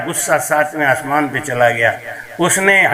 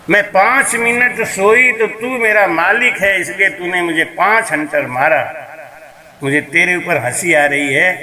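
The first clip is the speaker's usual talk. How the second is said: laughing maid. Acted. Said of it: "मुझे तेरी अकल पे हंसी आ गई".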